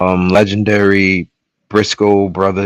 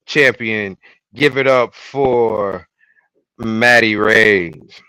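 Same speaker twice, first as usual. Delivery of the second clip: show announcer; 2 semitones higher, slower than usual. Acted. Host presenting the reigning prediction champion, announcer style. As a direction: space out each phrase and draw out the name.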